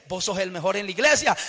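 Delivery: voz baja y suave, tentadora; susúrralo como una voz interior; vocecita del diablo. Acted. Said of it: "una vocecita". (vocecita tentadora del diablo)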